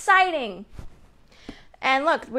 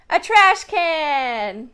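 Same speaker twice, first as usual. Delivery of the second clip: excited; much slower than usual. Real, not acted. Excited answer to kids.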